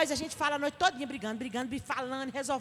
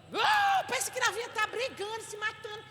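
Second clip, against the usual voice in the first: high-pitched alarmed cry, loud on the opening; hammed-up shock, starting on a high whoop; mock alarm; 7 semitones higher, 4 dB louder than usual. Onlooker alarmed that novinha is fighting, mock alarm.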